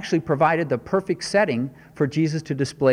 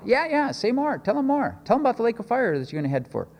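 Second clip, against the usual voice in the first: higher, eager mock urging, fast at the end; a playful higher voice cheering someone to keep talking; mock encouragement; 7 semitones higher than usual. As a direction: pretend to egg the demon on, tongue in cheek. Imagined Jesus egging demon on.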